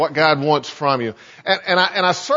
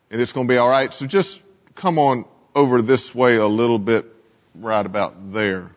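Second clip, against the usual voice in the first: tempter Satan; 7 semitones lower than usual. Acted. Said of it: "he moves even further out of sight".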